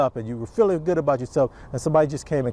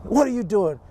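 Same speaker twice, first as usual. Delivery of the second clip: higher-pitched, mild mock yell; mock dramatic coach; 6 semitones higher than usual. Dramatic coach to a kid, imitated scolding. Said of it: "it's just so dramatic here".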